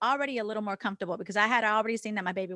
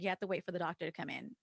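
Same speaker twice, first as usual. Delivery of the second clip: softer, quick nurse's line; nurse's hushed quick quote; 4 semitones lower, 9 dB quieter, much faster than usual. Retold or imitated. Retelling the nurse's brush-off, hushed and quick. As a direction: hush it and rush it like the nurse. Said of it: "she's like".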